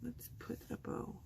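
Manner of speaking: whispered repeat to herself. Real, not acted. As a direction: mutter it under the breath.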